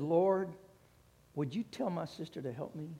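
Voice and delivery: hissed through clenched teeth; quiet, strained, jaw locked. Retold or imitated. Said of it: "through clenched teeth".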